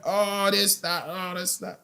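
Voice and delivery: high, squeaky mock of a dad brushing it off; mocking dad's excuses. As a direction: play the dad waving it all away in a silly high voice. Son mocking his dad's excuses.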